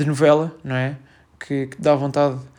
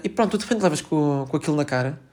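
ordinary talk

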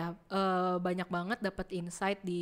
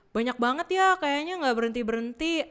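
acted weary-worker gripe, higher; mock overwhelmed grumble; mildly fed up; 4 semitones higher, 4 dB louder than usual. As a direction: lightly play someone swamped with work. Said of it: "Walaupun kerjanya mungkin sebel".

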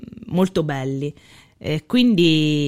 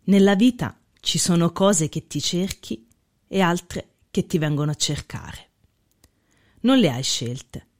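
quote reading. Acted. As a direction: recite it with weight. Reads a Faletti quote.

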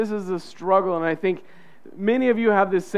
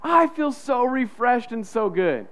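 fake refreshed cheer; 5 semitones higher than usual. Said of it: "wake up and be like".

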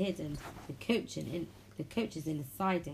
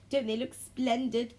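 high, slow, loud boast; proud; 6 semitones higher, 5 dB louder than usual. A narrator's reading. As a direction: draw it out with puffed-up pride. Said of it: "puffed Gordon proudly".

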